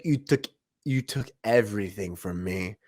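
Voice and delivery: hammed-up, low and soft grief; over-the-top Wanda. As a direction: ham up the vengeful line. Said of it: "I'm doing it way over the top".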